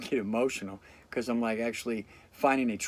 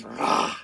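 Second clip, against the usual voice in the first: mock angry roar; 2 semitones lower than usual. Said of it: "It's always just".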